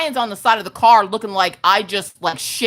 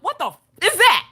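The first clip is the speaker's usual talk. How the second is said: retold shock; 10 semitones higher than usual. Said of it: "And I was like".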